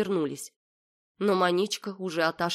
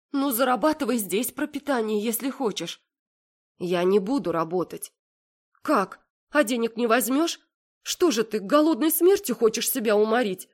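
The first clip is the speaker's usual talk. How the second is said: higher, insistent worried mother; lightly voiced anxious mother, pressing her; mother's voice; 5 semitones higher than usual. A narrator's reading. Worried mother argues with her stubborn daughter, higher.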